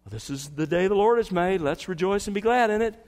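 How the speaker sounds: a light mock-cheery slogan voice; mock pithy slogan. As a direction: toss it off like a greeting-card motto, a touch of sarcasm. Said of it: "a pithy little Christian saying".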